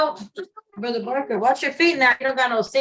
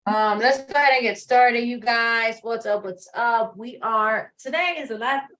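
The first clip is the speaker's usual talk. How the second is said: with hiccups. Real, not acted. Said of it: "excuse my hiccups".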